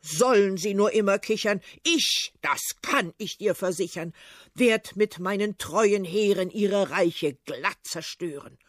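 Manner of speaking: put-on loud threatening old tsar; lightly voiced tsar, loud and furious; blustering tsar. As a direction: rant and threaten. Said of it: "Doch der Zar beginnt zu schreien".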